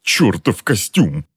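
high pained cry, then a slow cursing groan; agonized outburst. A narrator's reading. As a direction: cry out while writhing in a tight suit. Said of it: "Казалось, он вот-вот вывернется наизнанку".

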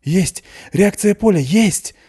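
high thrilled shout across the room; excited shout. A narrator's reading. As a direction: shout the breakthrough at the dial. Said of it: "закричал от своего пульта Мигель".

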